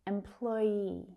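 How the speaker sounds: Employee with a held ee at the end; long final vowel. Shown as a demonstration. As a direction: draw out the last ee of Employee. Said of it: "That long vowel sound at the end".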